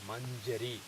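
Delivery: "manjari" with a palatal ny before the j; correct palatal nasal. Shown as a demonstration. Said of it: "That is why I wrote it as like this".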